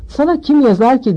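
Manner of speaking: mocking scoff; sneering. A narrator's reading. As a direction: sneer at the boy's letter. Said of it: "diye burun kıvırdı".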